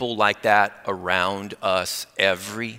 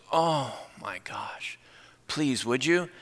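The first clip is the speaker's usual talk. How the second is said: slow whispered gasp into a soft plea; hushed, moved; 4 semitones higher, 7 dB quieter, much slower than usual. Retold or imitated. Widow asked if she wants prayer, hushed and moved. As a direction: imitate her, barely voiced and pleading.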